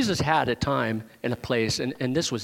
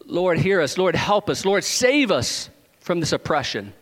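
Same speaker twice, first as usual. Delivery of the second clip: mildly raised retold plea; crying out; 3 semitones higher than usual. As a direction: imitate slaves pleading for rescue, restrained. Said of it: "They cried out".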